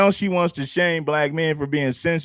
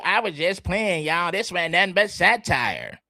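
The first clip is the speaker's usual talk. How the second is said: mocking her excuse. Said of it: "Now that she got caught".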